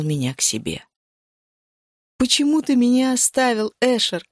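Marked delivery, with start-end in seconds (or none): 2.2-4.2 higher, pleading cry at him; крик сквозь слёзы. Acted. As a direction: cry it out, accusing. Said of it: "кричала я". (обвиняющий крик сквозь слёзы)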